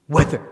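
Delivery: "whether" punched loud and quick; stress on whether. Shown as a demonstration. Teacher showing where the emphasis falls, "whether" stressed. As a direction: hit "whether" hard. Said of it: "The stress is on whether".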